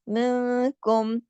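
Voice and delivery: मिनकुम slow with कुम said plainly, no nasal hum; slow Quranic reading of मिनकुम; clear म. Shown as a demonstration. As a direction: recite मिनकुम slowly, clean final म. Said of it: "इजहार के साथ पढ़ा".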